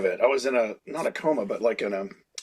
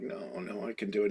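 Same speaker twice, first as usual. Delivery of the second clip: much softer, faint protest; weak sick voice; 6 semitones lower, 14 dB quieter than usual. Retold or imitated. Sick kid pleading to stay at work, faint and much softer. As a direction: insist with nothing left. Feeble sick self refusing to leave.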